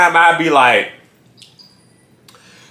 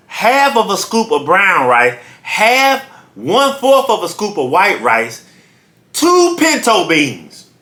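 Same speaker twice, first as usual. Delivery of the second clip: fussy customer; slower than usual. Retold or imitated. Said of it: "being too meticulous".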